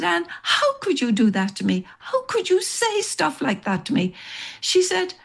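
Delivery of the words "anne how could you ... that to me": hurt accusation. Retold or imitated. Accusing friend of cruel joke.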